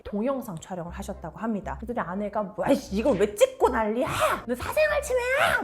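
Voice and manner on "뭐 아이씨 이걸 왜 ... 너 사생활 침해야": acted drunken rant rising to a high yell; abusive ranting. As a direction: play the irate wife, louder with each phrase. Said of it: "아내가 막 쌍욕과 폭언을 할 때". (폭언하는 아내 흉내, 점점 버럭)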